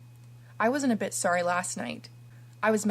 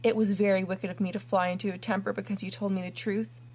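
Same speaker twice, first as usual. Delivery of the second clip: pleading. Acted. Kneeling orphan begs forgiveness.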